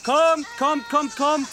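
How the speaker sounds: hohe, laute Lockrufe; Ziegen locken. Acted. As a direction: ruf sie eindringlich heran. (laute Lockrufe an Ziegen)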